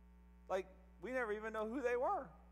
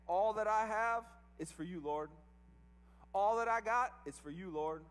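excited devotion; 4 dB louder than usual. Retold or imitated. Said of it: "They were essentially saying".

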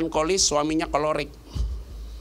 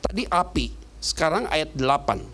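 ordinary delivery

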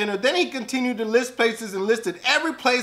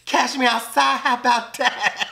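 imitating Cash Me Outside girl; 3 semitones higher than usual. Quoting the viral girl with sass. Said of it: "talking about".

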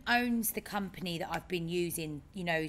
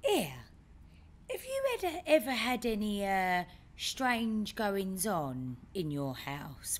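imitating dad; 2 semitones higher, slower than usual. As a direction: spin it like a spooky question, slowing at the end. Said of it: "he goes".

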